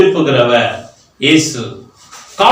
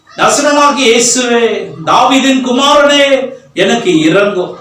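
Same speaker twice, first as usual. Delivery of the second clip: acted crying out. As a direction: stretch each phrase like a beggar calling out. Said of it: "உடனே சத்தம் போடுகிறான்".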